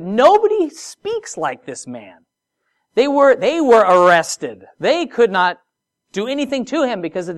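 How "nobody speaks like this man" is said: slow, higher, awed reply; awed guard. Retold or imitated. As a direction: marvel at the man, slowly. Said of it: "He said".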